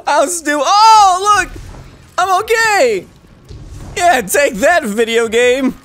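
high, loud gloating at the game; elated high-pitched taunt; triumphant shout. Real, not acted. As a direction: yell it in relieved triumph. Taunts game after surviving.

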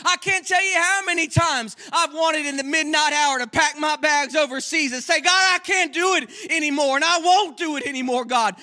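high, loud pulpit preaching; preacher's full-force exhortation; fiery preaching. Acted. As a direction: preach it hard to the congregation.

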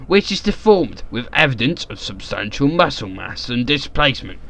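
measured, theatrical narration; dramatic journal reading. Acted. Reading the notes on the crate's body, in theatrical narration. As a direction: read it like a formal journal entry. Reads journal aloud in character.

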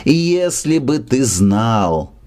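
very slow, understated despairing lament. Acted. Брыкович, drunk, clutching his head in mild despair. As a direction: drag it out as a mild despairing cry. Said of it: "в отчаянии хватал себя".

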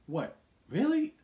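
high, disbelieving "Really?"; incredulous. Acted. Viewer reacting to the clichéd movie, incredulous. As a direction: leap up in pitch in mock disbelief.

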